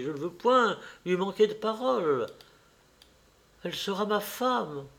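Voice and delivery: insist, then soften on the last line; lightly voiced determined Dorian. A narrator's reading.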